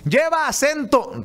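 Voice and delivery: hammed-up yell of "Lleva acento" across the studio; mock shout. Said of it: that the speaker shouted it.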